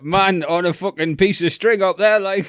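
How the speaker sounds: loud, high-pitched comic heckle; mock calling out. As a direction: call up to someone high overhead, hammed-up. Mock English version of French line.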